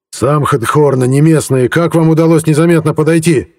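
rising to a loud bandit yell; yelling tramp. A narrator's reading. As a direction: bark the question at them. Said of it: "заорал бродяга". (орёт бродяга)

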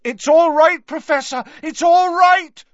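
high, loud, desperate reassuring; loud reassurance. Acted. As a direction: call it out loud to calm him. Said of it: "said Harry loudly".

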